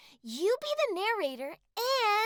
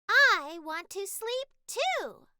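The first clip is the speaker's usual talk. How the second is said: cat voice; slower than usual. Acted. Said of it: "because you are the cat".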